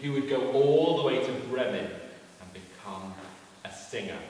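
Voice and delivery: animated, deliberate story narration; lively children's storyteller; storytelling to children. A narrator's reading. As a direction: tell it to a young audience.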